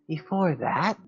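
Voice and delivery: high-pitched take. Shown as a demonstration. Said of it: "I'm trying to find, like, a consistent voice".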